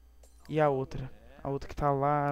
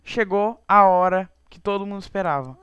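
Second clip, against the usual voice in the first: excited announcement; 4 semitones higher, 8 dB louder than usual. Real, not acted. Big reveal to viewers.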